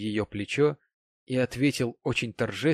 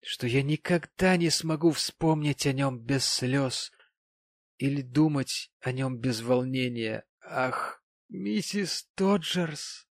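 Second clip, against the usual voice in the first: lightly voiced sentimental gentleman, drawn out; maudlin tipsy gentleman; 3 semitones higher, slower than usual. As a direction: play a touch of tipsy emotion.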